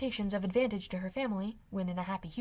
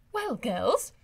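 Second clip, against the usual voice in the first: put-on louder, bright excited mother calling the girls; high spirits; 3 semitones higher, 6 dB louder than usual. A narrator's reading. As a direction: gush with delight. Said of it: "in very great spirits".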